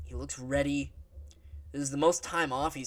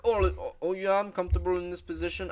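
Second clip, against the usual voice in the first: a lightly put-on, higher Australian accent as Volk; 5 semitones higher than usual. A fan imitating Volk in a rough Australian accent. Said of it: "I can't do a fucking Australian accent".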